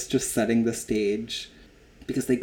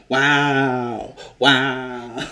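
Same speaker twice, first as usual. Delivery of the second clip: incredulous wow. Retold or imitated. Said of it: "starts spinning around in her chair and going".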